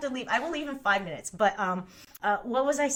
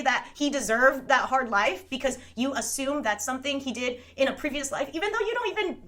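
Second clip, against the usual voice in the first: retold outrage. Retelling an argument over a disabled guy, indignant. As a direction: act out being mad, incredulous at first. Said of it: "I was so mad".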